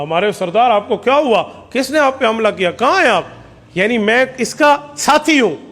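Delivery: a hint of a worried servant, rising toward the end; lightly put-on concerned attendant; disguised new voice. Companion disguises his voice as an attendant asking the chief where he is. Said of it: "آواز بدل کے ایک نئے بندے کی آواز نکال کے کہا".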